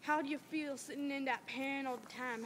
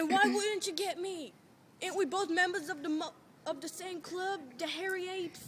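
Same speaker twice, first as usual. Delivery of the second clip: a bitter edge, louder; 5 semitones higher, 5 dB louder than usual. Acted. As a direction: let bitterness creep in. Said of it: "Then bitterness creeping in".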